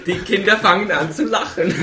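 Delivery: vor Lachen kaum sprechen; lacht beim Vorlesen. Real, not acted. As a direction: prustet beim Pointenvers los. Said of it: "Ich hab schon vorher angefangen zu lachen". (beim Vorlesen vor Lachen prustend)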